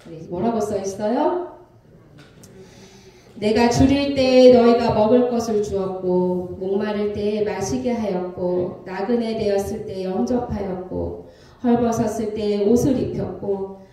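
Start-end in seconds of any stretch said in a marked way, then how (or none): 3.3-13.8 slow, measured Bible reading; deliberate recitation to a congregation; scripture reading. Acted. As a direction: read the verse evenly, phrase by phrase. Reads scripture aloud.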